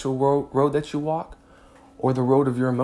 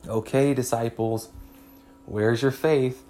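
gentle mild version; 2 semitones higher than usual. Acted. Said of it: "No, he probably snapped at them".

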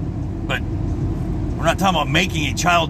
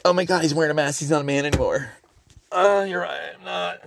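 a hint of a camp gossip's gasp; mock gay voice; 3 semitones higher than usual. Mocking critics of mask wearing, in a light camp voice. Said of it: "I'm doing the gay voice".

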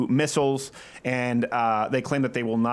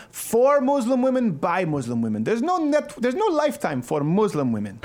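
movie trailer voice; 8 semitones higher than usual. Acted. Mock movie-trailer announcer.

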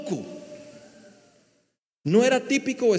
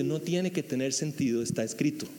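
calm Jesus; 6 semitones lower, 7 dB quieter than usual. Retold or imitated. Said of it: "Y Jesús le dice".

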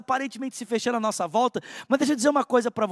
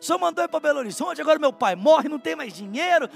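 higher-pitched mock tearful complaint to God; retold crying prayer; 4 semitones higher than usual. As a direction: replay the weeping plea without real sobs. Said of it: "comecei a chorar e falar". (choro imitado, queixa aguda a Deus)

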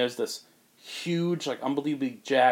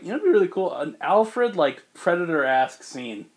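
high, loud eager pitch; retelling a burst of inspiration; excited idea; 5 semitones higher, 5 dB louder than usual. Retold or imitated. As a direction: sell the idea with enthusiasm. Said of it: "I was like".

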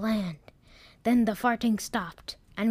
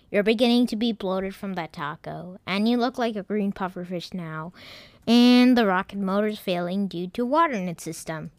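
stern; 5 dB louder than usual. Acted. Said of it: "computer said sternly".

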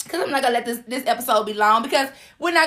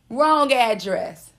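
Wrong address said slowly, each word weighed; sassy slow repeat; drawn out, deliberate; much slower than usual. Shown as a demonstration. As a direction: let it sink in. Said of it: "repeated slowly".

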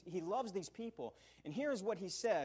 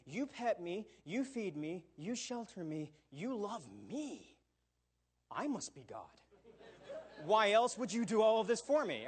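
lightly hammed-up entitled cat; smug cat; 2 semitones higher than usual. A cat telling its master it must be God, mock smug. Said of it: "will take that exact same information and say".

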